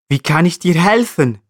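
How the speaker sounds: high, gently concerned question; mildly compassionate marmot voice. A narrator's reading. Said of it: "fragt er mitfühlend nach".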